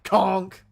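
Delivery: a loud, high bonk sound effect; loud conk. Pretend. Character hit by wood, loud conk effect.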